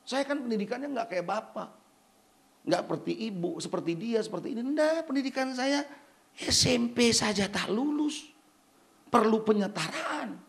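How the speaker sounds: lightly voiced downcast churchgoer; mock ashamed excuse. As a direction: drag it out, embarrassed.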